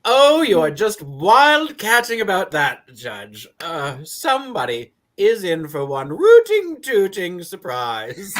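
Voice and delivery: teasing glee. Acted. Teasing about the coming surprise.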